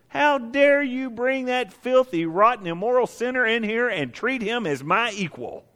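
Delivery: high, slow outraged protest; indignant older brother. Retold or imitated. Older brother scorning the returning sinner, high indignant outburst. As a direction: spit out filthy as if the word tastes bad. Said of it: "Hated it".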